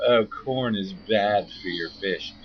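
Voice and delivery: slow, exaggerated know-it-all voice; mocking know-it-all. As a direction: parody an internet expert. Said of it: "they'll sit there and go".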